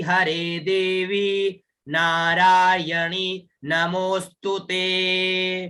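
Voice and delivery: measured, chanted Sanskrit verse; teacher reciting the shloka for students to repeat; slow shloka recitation. Shown as a demonstration. Recite the verse slowly for the class. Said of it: "पुनः सुनिएगा".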